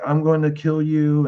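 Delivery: father yelling a threat at his daughter; retold yell. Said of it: "screaming all night long".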